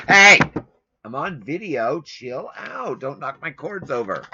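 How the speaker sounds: high pet voice, pleading with the dog to calm down; talking to the dog. Real, not acted.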